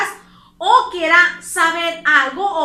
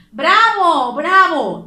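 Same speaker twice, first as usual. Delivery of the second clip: louder, jubilant cheer of "bravo"; euphoric cheer; 6 dB louder, much slower than usual. Shown as a demonstration. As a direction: cheer it like a delighted crowd. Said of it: "Esto significa euforia". (ovación eufórica, más fuerte)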